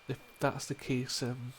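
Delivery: put-on soft-spoken Scottish accent. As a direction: speak gently with a Scottish lilt. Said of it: "difficult sentences in a Scottish accent".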